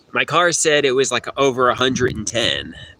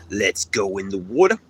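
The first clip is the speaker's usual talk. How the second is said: fake Brooklyn accent. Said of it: "They like Brooklyn accents".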